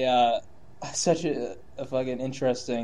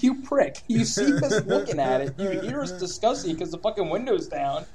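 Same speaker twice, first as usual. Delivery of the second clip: mock angry rant; 3 semitones higher than usual. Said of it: "I was like".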